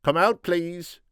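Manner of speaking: slow, high father's call; high, drawn-out summons to a daughter. A narrator's reading. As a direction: call her outside, drawing the words out. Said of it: "the father called".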